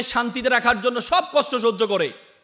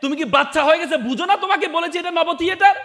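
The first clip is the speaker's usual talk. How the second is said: raised, higher-pitched exasperated scolding; 5 semitones higher than usual. Acted. Grown son snaps at his old father's repeated question, scolding. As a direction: scold with rising impatience, ending on a high question. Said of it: "ছেলে দ্বিতীয়বার ধমক দিয়ে বলে".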